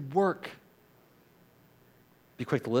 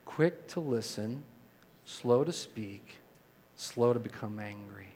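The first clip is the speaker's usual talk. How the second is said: leading recitation; 3 semitones lower, 3 dB quieter, slower than usual. Shown as a demonstration. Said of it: "Say that one more time".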